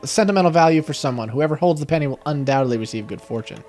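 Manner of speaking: reading an item description aloud; game narration. A narrator's reading. Player reads the old coin's description aloud, narrating.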